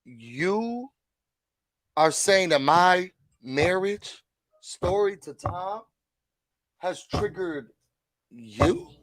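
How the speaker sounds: slow, drawn-out haughty mock of Luann. Luann asking if her marriage story triggered them, slow and haughty. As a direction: stretch every word, offended. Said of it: "So Luann was like".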